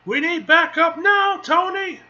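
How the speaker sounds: loud, high call for backup; urgent shout. Acted. Hero calling Tony for backup, urgent shout. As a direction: shout it over the battle to a teammate.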